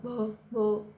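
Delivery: a light stammer on the first sound; girl stammers out the start of her name, lightly stammered. Acted. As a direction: stumble on भ over and over. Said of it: "She stammered".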